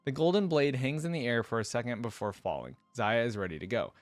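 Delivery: measured first-person storytelling; story narration. A narrator's reading. Hero grumbling to himself about the steps, lightly acted narration. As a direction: read it as the hero's running thoughts.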